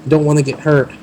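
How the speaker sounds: goblin voice. Acted. Goblin NPC speaks.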